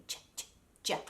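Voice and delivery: "ch, ch, j" as short bursts; isolated "ch" sounds, then a voiced "j"; chewy D. Shown as a demonstration. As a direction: chew out the sounds "ch, ch, j". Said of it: "like you're chewing on something".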